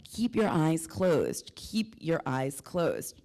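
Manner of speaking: lightly voiced plant spirit, slow and measured; slow, spaced-out command, easing slightly on the repeat; voice of the vine. Vine speaking to her during the trip, slow lightly voiced instruction. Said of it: "the vine started speaking to me".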